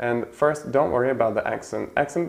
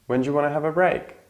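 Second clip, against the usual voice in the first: fast wanna model; 4 semitones higher, faster than usual. Shown as a demonstration. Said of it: "very often is pronounced wanna".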